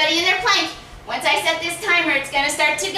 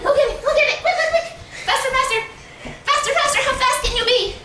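hoarse marathon cheering; 10 semitones higher, faster than usual. Real, not acted. Coach cheering kids on.

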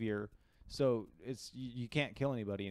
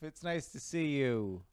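excited greeting; 4 semitones higher, 6 dB louder, slower than usual. Retold or imitated. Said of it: "you were like".

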